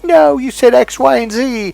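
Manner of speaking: high, pushy mock accusation; insistent accuser. Accusing a friend mid-argument, in a high mock-insistent voice. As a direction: play the other person digging in on what they heard.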